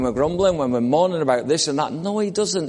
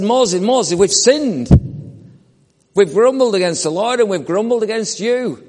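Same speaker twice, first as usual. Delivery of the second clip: mild pleading people; 4 semitones higher than usual. Retold or imitated. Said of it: "the people came to Moses and said".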